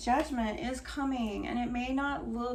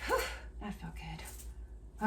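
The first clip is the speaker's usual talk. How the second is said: relieved; 4 semitones lower, 5 dB quieter, slower than usual. Real, not acted. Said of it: "I can be so emotional and then release it".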